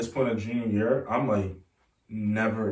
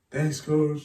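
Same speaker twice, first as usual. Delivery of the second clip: retold near-tears thanks, slightly higher; almost crying; 5 semitones higher than usual. Player thanking the coach for an offer, almost crying. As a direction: imitate holding back happy tears. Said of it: "I'm almost crying".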